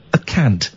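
"a cant" said slowly and precisely; careful pronunciation. Shown as a demonstration. Host coins "cant" for a calm rant, said carefully. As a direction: pronounce "a cant" with care.

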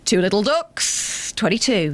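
slow bingo call; drawn-out bingo caller. Pretend. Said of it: "Now you're sounding like a fat man".

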